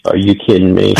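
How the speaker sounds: shouted "are you kidding me" breaking into laughter; laughing scoff. Real, not acted. Caller scoffs at missing Northeast.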